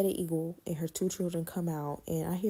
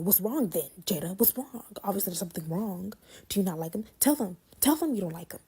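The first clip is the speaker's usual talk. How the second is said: pushy aunt; 2 semitones higher than usual. Retold or imitated. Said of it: "She was like".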